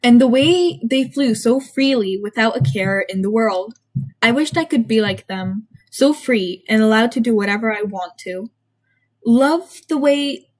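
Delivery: measured first-person storytelling; story narration. A narrator's reading. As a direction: read it aloud like a confessional tale. Reads own story aloud.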